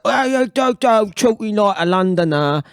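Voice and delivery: scoffing retort. Retold or imitated. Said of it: "and it's like".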